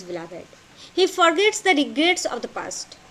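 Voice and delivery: very slow, word groups set far apart; halting note-taking delivery; dictation. Shown as a demonstration. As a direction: dictate it in tiny chunks with long pauses. Continues dictating notes to students.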